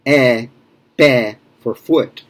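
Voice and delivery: pé with an open e, mouth wide; slow open e in pé. Shown as a demonstration. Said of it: "you open your mouth".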